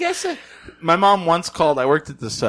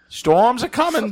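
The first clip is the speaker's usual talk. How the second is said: slow, higher Maine drawl; Maine accent; 11 semitones higher, slower than usual. Pretend. Imitating a Maine local for friends, slow Maine accent. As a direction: warn of the storm like an old Mainer. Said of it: "I'm trying to think of what it sounds like".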